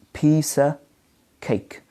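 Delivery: "piece of" run together as pees-uh, then "cake"; teacher's broken-up model, pees-uh... cake; OF reduced to schwa. Shown as a demonstration. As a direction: show "of" as a bare uh, pause before "cake". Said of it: "of is reduced to".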